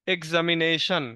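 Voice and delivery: "এক্সামিনেশন" sounded out in its syllables. Shown as a demonstration. Teacher giving another example of splitting long words, "এক্সামিনেশন" said part by part. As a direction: measure out each part of "এক্সামিনেশন". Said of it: "syllable অনুযায়ী আমরা বড় ওয়ার্ডগুলোকে ভেঙে ভেঙে উচ্চারণ করে থাকি".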